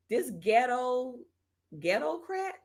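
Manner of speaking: slow, rising to a high disbelieving ghetto crat?; incredulous reread. Real, not acted. To the commenter, an incredulous mocking reread. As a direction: repeat the insult like you can't believe it.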